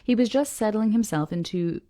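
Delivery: measured, deliberate reading aloud; story narration. A narrator's reading. Reader reads the harbor description to listeners, story narration. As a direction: read it out carefully, phrase by phrase.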